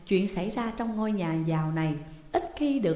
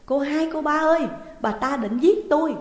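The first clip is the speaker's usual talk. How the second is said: high, loud alarmed call; cry for help; 8 semitones higher, 6 dB louder than usual. A narrator's reading. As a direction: shout for rescue from an attack. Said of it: "bà kêu cứu". (hốt hoảng kêu cứu)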